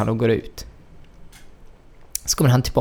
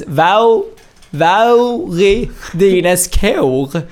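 var är dina skor drawn out very slowly, with Scanian vowels and a rising end; slow Skåne vowels; 5 semitones higher, 4 dB louder, much slower than usual. Shown as a demonstration. Patient shows how hard the Scanian vowels were, very slow. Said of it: "vilka vokaler eller bokstäver?".

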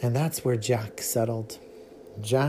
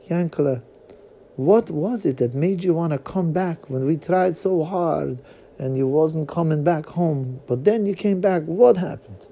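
higher father voice; 4 semitones higher, 3 dB louder than usual. Acted. Father asks son at last.

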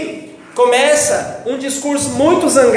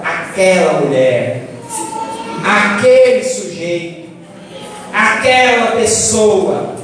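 bitter naming; 4 semitones lower, slower than usual. Retold or imitated. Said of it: "você tá irado, zangado, magoado".

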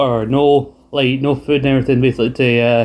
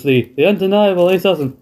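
higher mock New Zealand accent; 5 semitones higher than usual. Quoting a backstage wrestling promo in a mock New Zealand accent. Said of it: "I think I'm sounding more Australian than New Zealand".

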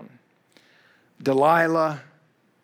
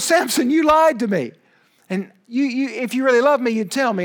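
higher, pleading nag, lightly voiced; whiny accusing Delilah; 6 semitones higher than usual. Delilah whining at Samson for the truth, mock hurt. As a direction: play a hurt, nagging wife.

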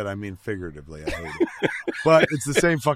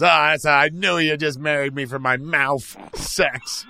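mocking wife; 5 semitones higher, 6 dB louder than usual. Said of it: "And she says".

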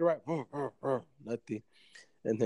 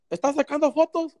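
put-on higher, louder kid asking; little kid voice; 12 semitones higher, 7 dB louder than usual. Kid at flea market asking about photos, high kid voice. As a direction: pipe up like a curious boy. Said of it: "He's like".

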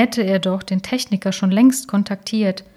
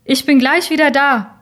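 calling from afar; 6 semitones higher, 6 dB louder than usual. Acted. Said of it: "Aus dem Nebel war seine Stimme".

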